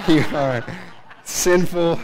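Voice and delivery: loud, drawn-out mock scolding; mock condemnation. Preacher teasing shaven listeners, loud mock condemnation. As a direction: playfully denounce them at full volume.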